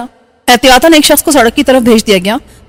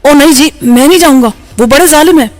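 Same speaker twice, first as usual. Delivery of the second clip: frightened refusal; 3 semitones higher than usual. A narrator's reading. Driver refuses in fear.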